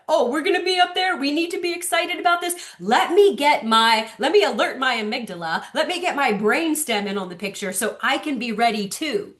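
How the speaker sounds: lightly voiced excited baby; alarmed baby. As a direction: rev the baby up to alert. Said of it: "So the kid was like".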